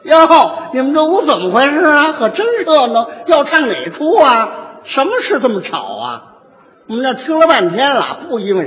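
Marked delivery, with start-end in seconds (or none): 0.0-6.2 lightly raised, chatty busybody tone; a hint of a fussy neighbour lady barging in; woman mediator voice. Lightly voiced woman mediator breaking up a quarrel. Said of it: "女的过去是这样说".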